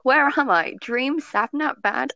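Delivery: incredulous questions in a put-on character voice; George. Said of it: "trying to find where my George voice is".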